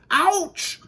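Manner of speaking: high, loud yelp; sudden high cry of pain; howl of pain. A narrator's reading. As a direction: howl it as if bumping into a tree. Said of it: "howled Mister Winky".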